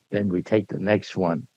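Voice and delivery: usual speaking voice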